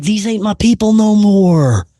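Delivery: high, loud horrified wail; horrified cry. Retold or imitated. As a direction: cry it out in terror. Horrified at wife's look.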